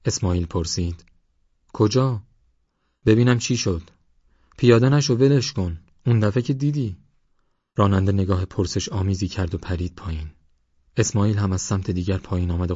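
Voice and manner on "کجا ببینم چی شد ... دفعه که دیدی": higher, alarmed pleading; anxious, raised-pitch urging; urgent warning. A narrator's reading. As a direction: stop him from getting out. Frightened passenger warns driver off.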